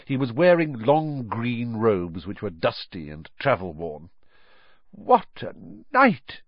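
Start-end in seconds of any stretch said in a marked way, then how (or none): 4.9-6.4 slow, high, weary exclamation; tired mumbling father. A narrator's reading. Father home from a night's work, tired mumble. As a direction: drag the words out wearily. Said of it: "he mumbled".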